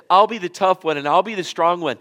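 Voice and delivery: retold boast. Retelling Peter's boast.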